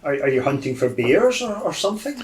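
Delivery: put-on high, halting old gentleman; doddery lost old man. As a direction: stammer a puzzled question as an old man.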